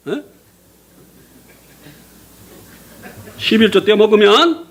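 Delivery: lightly imitated scolding preacher; mock the old pastor's lecture. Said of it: "목사님이 ... 반대되는 설교를 하시는". (목사님 설교를 비꼬듯 흉내)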